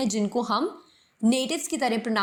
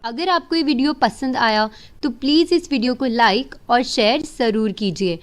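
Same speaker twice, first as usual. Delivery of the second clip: louder, upbeat subscribe plug; loud outro; 6 dB louder than usual. Acted. Teacher asking viewers to like and subscribe, louder. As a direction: push the like and share ask. Channel outro call to action.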